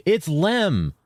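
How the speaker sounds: high-pitched exclamation on "Lem"; excited realization. Real, not acted. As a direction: exclaim the discovery, pitch jumping up. Exclaims the discovery to chat.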